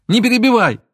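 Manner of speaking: sudden high loud shout; a sharp shouted order. A narrator's reading. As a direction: cut him off with a yell. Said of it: "Вдруг закричала она".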